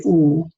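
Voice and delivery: "oo" through lips made into a circle; rounded oo sound. Shown as a demonstration. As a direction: put the lips together and say "oo". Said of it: "you're making a circle with your mouth".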